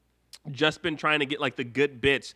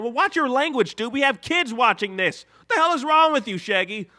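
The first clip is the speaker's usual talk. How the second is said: louder, higher mock telling off; mock scolding; 9 semitones higher, 6 dB louder than usual. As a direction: scold Shaggy in jest. Host scolds Shaggy in a skit.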